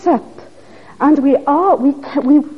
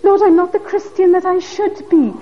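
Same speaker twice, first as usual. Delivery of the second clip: pleading, raised-pitch prayer to God; crying out; 3 semitones higher than usual. Acted. Believer confessing to God a joyless Christian life, crying out. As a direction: plead with the Lord as a troubled believer. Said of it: "then we must cry for them".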